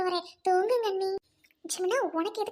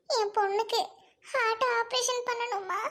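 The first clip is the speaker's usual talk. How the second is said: crying appeal, pitched up; tearful plea; 3 semitones higher than usual. Acted. Mother begging employers for daughter's surgery money, tearful plea. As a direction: beg for help through tears. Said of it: "Nalini, என்னம்மா அழுகாத".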